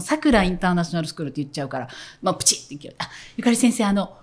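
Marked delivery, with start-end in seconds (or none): 0.0-1.3 さくらインターナショナルスクール with the Kansai pitch, fast; Kansai-accented name. Retold or imitated. Announcer stuck in her Kansai accent during the school name recording. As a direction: rattle off さくらインターナショナルスクール in a Kansai lilt, quickly. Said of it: "何回撮り直しても".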